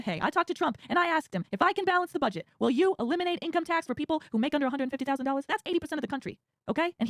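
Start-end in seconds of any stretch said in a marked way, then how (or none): 0.0-5.5 Lutnick impression. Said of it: "Howard Lutnick saying".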